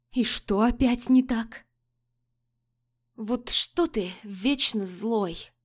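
put-on slurred, slow drunken mumble; заплетающийся язык. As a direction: mumble it, tongue tripping. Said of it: "промямлила заплетающимся языком". (пьяно мямлит, заплетаясь)

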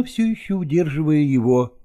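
usual speaking voice

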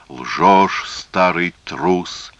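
drawn-out accusation with a touch of force; understated shout, stretching the insult; mild angry cry. Acted. Antigonus rebukes the old man as liar and coward, mild angry cry. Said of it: "крикнул Антигон".

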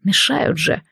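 a wince of annoyance; annoyed grumble. Acted. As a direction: grouse that they are in the way. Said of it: "досадливо поморщился".

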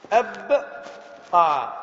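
أبقى stretched very long; very slow drawn-out word. Shown as a demonstration. Teacher repeating the example, drawing out أبقى. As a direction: hold every sound of أبقى. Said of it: "آه، أبقى".

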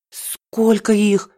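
медленно, с придыханием; ахнуть от изумления; ахнула. A narrator's reading. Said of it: "ахнула я". (Даша ахает при виде жуков, медленно)

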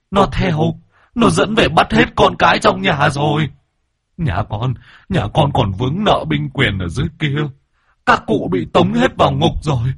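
high, frightened begging voice; panicked pleading. A narrator's reading. Ghost pleading in panic with the shaman through the woman. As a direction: plead desperately with the master. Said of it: "không che giấu được sự hoảng hốt".

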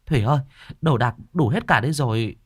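calling out. Acted. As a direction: call Thủy from another room. Mother calls from the house. (gọi to từ trong nhà)

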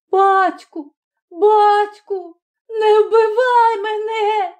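put-on high child's voice, slow terrified plea; a little boy begging for his life. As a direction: son pleading with his father, high and frightened. Boy begs father for life.

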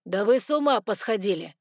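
loud, incredulous outburst; outraged exclamation. A narrator's reading. Noah protesting at the council, outraged exclamation. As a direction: exclaim it at the whole room. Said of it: "воскликнул Ноа".

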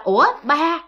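astonished, urgent questions; startled questioning. Retold or imitated. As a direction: call out to a father who shouldn't be there. Mother startled seeing dead father.

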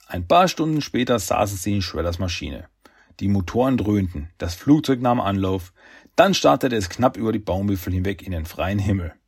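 measured, even storyteller delivery; story narration. A narrator's reading. Narrator tells how Shredder draws his pistol, measured storytelling. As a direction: read it out like an audiobook narrator.

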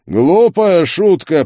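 loud, high, drawn-out fury; angry growl. A narrator's reading. Duke reacts to the shattered crystal, growling angrily. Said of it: "прорычал Элиас Войский".

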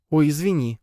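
embarrassed. A narrator's reading. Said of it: "покраснела она".

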